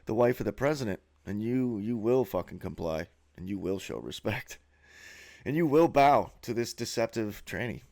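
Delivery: a mock ruler laying down the law; imitating an official ordering the public to bow; mock official decree. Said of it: "paraded that guy around like that and said".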